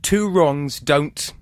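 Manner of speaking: slow, drawn-out prompt; slow reading. Shown as a demonstration. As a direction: stretch each word out slowly. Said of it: "reads adage prompt".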